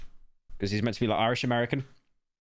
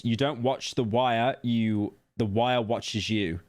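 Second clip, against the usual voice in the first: mock fan quote; slower than usual. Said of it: "the usual Wire fan cope was".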